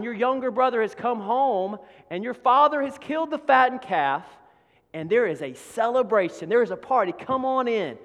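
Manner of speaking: excited servant. Acted. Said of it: "a fellow servant comes up and says".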